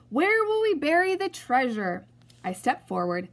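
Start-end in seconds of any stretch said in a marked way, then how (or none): 0.1-2.1 higher, louder worried cry; distressed holler. Acted. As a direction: cry out over the storm. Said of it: "hollered Braidbeard".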